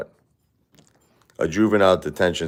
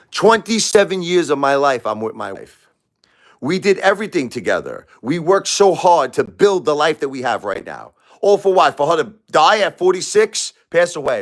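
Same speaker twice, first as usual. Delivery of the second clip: anguished high rant; 8 semitones higher than usual. Real, not acted. Widower venting to viewers about losing his wife, anguished and high. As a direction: pitch climbing high in grief and anger.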